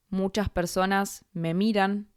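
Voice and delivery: ordinary talk, nothing marked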